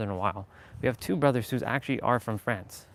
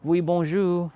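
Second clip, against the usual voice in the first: high, louder mock-French hello; imitating Pascal's greeting; 7 semitones higher, 6 dB louder, slower than usual. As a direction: chirp it like a cheery French brother. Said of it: "always salute me in French".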